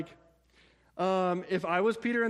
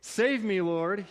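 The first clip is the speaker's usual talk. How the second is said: a hint of a shout from someone sinking; mild mock shout; 2 semitones higher, slower than usual. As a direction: call for rescue without real force. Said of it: "he shouted".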